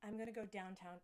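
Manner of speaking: tentative American accent; Aussie attempting American vowels. Shown as a demonstration. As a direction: try the line as an American would. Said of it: "another really not Aussie word".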